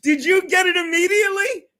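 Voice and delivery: high, loud laughing shout to his brother; real fit of laughter. Real, not acted. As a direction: howl with laughter, then shout the question up high. Cracking up on phone call.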